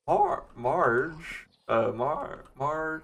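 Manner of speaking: halting tries at Homer's Marge; groping for Homer's voice on Marge; bad Homer impression; Homer Simpson attempt. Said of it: "can you do Homer Simpson".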